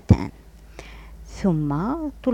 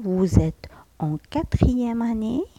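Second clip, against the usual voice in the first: whisper; 5 semitones higher, slower than usual. Shown as a demonstration. Reading the friend's question.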